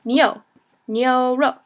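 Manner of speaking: "Nyo" as knee plus oh, then "nyoro"; pronunciation model. Shown as a demonstration. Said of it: "kinda pronounced like ni and o".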